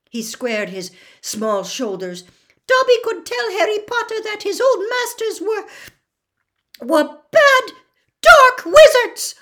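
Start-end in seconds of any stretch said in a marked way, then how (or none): 2.7-9.4 halting, then burst out at full squeak; daring Dobby. Acted. Dobby dares tell Harry about his old masters, building squeak.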